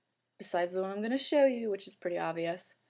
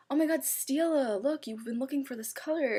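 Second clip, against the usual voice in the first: higher, eager mock boyfriend; excited boyfriend; 5 semitones higher than usual. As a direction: boyfriend spotting a colour for her, pitched up and eager.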